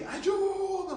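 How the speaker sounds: high shouted cry for help. Retold or imitated. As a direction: cry out to the people on the shore. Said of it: "disse assim".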